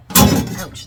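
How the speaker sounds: sharp yelp of pain. Real, not acted. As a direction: yelp as the hand gets burnt. Burnt hand on hot pot.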